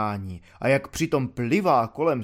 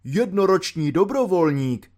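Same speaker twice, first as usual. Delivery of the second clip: pompous colonel aloud; 3 semitones higher than usual. Retold or imitated. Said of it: "blbil ten pitomec obrst nahlas".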